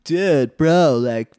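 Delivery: lightly voiced surfer dude; a hint of stretched-out surfer talk. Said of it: "is that really your surfer dude?".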